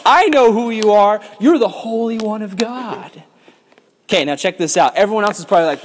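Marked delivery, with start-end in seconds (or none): 0.0-3.2 high, loud frantic demon cry. Acted. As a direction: shout it like a panicked demon. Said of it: "he cries out".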